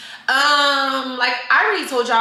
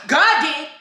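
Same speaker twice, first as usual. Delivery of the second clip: hype answer; 6 semitones higher than usual. Acted. Hype chant.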